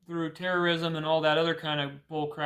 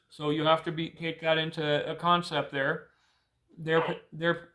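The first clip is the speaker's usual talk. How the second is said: ice in mouth. Real, not acted. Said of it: "sorry, I'm just chewing my ice cube there".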